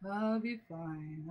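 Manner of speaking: barely audible, very quiet, drained, tired voice. Mocking the other speaker's reply about being fine: imitating a tired voice.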